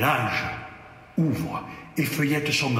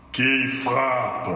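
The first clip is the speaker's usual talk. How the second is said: hoarse, doleful voice; 2 semitones lower than usual. Acted. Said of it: "une voix rauque et dolente".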